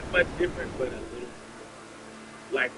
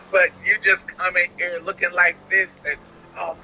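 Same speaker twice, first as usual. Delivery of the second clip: lightly hammed-up admirer, a bit raised; gushing retold compliment; 4 semitones higher, 8 dB louder than usual. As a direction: mimic a stranger showering someone with praise. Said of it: "they're like".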